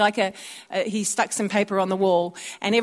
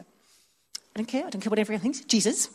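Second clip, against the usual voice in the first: quiet mock defiance; 7 dB quieter than usual. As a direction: mutter it under your breath. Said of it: "Did she just go".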